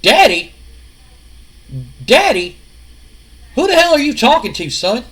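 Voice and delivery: loud, high, outraged repeating of Daddy; indignant shouting. Retold or imitated. Father rejects the son who called him Daddy, loud outrage. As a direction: bellow it back in disbelief. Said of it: "looks at him and goes".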